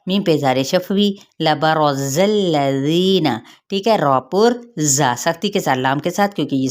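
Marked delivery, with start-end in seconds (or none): 1.4-3.3 drawn-out tajweed chanting; slow Quran recitation. Shown as a demonstration. Teacher reciting slowly for her students. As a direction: recite it slowly, every sound held. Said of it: "teacher recites Quran words".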